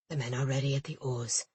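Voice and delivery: low, even, unhurried; a calm first mate reporting. A narrator's reading. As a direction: keep it level and composed. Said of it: "Jin said calmly beside her".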